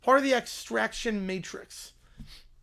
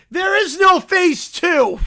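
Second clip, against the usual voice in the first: loud, slow, punching NO; stretched out indignant yell; outraged shout; 4 semitones higher, 9 dB louder, slower than usual. Acted. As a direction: blurt it out in disbelief at the leader. Kid shouting at leader.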